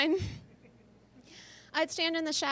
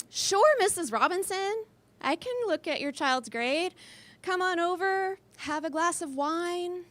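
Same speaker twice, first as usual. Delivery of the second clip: higher, sugary come-on voice; flirty teacher voice; 4 semitones higher than usual. Acted. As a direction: lay on the charm with a parent. Teacher flirting with helicopter mom.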